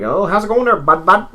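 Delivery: high-pitched mock Ontario greeting; imitating mainland buddy talk. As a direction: chirp it like an overfriendly mainlander. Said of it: "a lot of people say".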